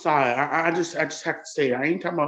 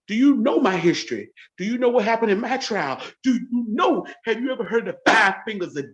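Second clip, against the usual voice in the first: heated challenge; 4 semitones higher than usual. Real, not acted. Woman confronting her husband's relative, raised and challenging. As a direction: pitch raised, pressing each question. Confronting the Army man on camera.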